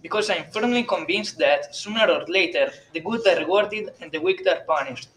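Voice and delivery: put-on priest's firm conviction in an Italian accent. A narrator's reading. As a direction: state it solemnly with a thick Italian accent. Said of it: "in a pronounced Italian accent".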